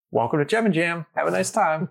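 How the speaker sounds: high, lightly voiced hippie welcome; sing-song the greeting like a friendly old hippie; cheery gate greeter. Older hippie woman at the gate welcoming him, lightly voiced and high. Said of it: "She's like".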